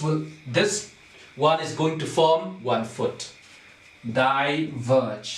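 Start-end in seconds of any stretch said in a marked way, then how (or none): 4.1-5.4 "Diverge" drawn out as two beats, di-verge; syllable by syllable. Shown as a demonstration. Teacher shows class another foot, syllable by syllable. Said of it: "this is going to form another foot".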